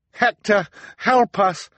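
high, loud, urgent plea; calling for help. A narrator's reading. Violet begs Hector for help, urgent call. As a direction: call out desperately. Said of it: "Violet called".

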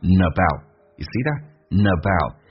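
slow "about" with the preceding N attached, "nabout"; 连音示范. Shown as a demonstration. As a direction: say "About" as "nabout", linked from information. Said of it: "about可以有个连音叫about". (慢速连音“about”，前面带n)

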